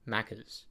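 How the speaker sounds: "Macca's" with the A stressed; emphasis on the A. Retold or imitated. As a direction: lean on the first A in "Macca's". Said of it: "so much emphasis on the A".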